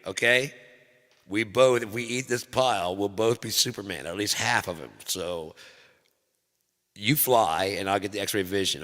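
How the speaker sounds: high, loud, laughing talk. Real, not acted. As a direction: talk through giggles. Laughing through kid memory.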